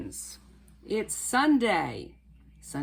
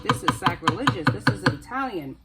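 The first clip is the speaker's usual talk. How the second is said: imitated protest, louder, punching each word; emphatic mock indignation; mock outraged viewers; 7 dB louder than usual. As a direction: mimic scandalized viewers objecting. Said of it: "some of you are gonna be like".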